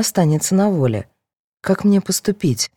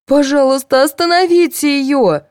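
high, loud begging; pleading; 9 semitones higher, 4 dB louder than usual. A narrator's reading. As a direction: beg them to stop her. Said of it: "попросила Фёдорова".

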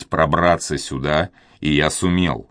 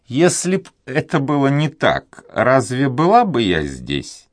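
put-on much higher, grumbly old maid; grumbling old woman; 9 semitones higher than usual. A narrator's reading. Old duenna grumbling at the young man, high voice. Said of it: "проворчала старуха".

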